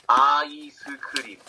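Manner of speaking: "아이스크림" as a-i-seu-keu-rim; Korean pronunciation. Shown as a demonstration. Teacher introducing ice cream in Korean, "아이스크림" as a-i-seu-keu-rim. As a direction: give "아이스크림" five Korean syllables. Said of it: "in Korean is".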